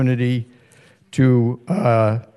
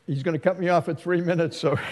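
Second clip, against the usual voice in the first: quick laughing aside; rushed joke through laughter; 3 semitones higher, 4 dB quieter, much faster than usual. Real, not acted. Joke about being cut off.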